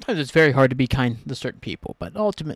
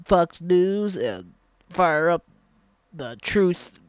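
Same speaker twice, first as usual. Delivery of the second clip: mocking country singer; 2 semitones higher, much slower than usual. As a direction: ham up the good ol' boy, slow. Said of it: "the dude from a band is like".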